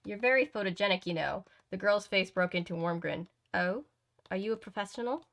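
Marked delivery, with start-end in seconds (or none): 0.0-1.4 brisk, attempted upper-class British; quick line in a put-on British girl's voice; lightly faked proper British accent. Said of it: "in a proper upper-class British accent". 3.5-5.3 attempted upper-class British question; amateur proper British accent. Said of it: "in that, in that voice".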